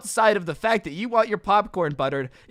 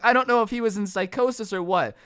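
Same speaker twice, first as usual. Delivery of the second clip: ordinary talk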